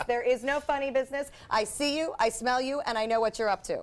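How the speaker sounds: put-on stern parent warning a teen; a lightly voiced strict mom; parenting a teenager voice. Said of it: "This is my parenting the teenager's voice".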